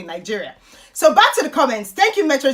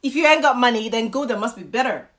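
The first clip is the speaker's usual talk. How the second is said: mock American English. Shown as a demonstration. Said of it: "Let me translate in American".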